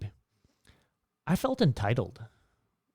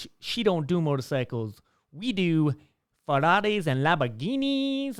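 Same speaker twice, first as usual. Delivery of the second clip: snobby guy; 5 semitones higher, 3 dB louder than usual. Retold or imitated. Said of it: "he goes".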